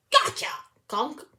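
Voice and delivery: sudden high, loud prankster's cry; screech. A narrator's reading. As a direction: screech it to startle someone from behind. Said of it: "and screech".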